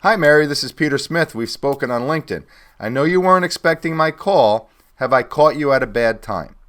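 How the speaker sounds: friendly, upbeat sales call greeting; demo cold call opener. Shown as a demonstration. Sales trainer demos a call opener to a prospect, upbeat. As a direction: sound like a rep opening a call. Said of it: "So let me start that again".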